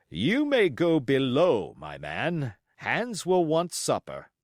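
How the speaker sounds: slow, firm dismissal; captain giving orders; stern captain. Acted.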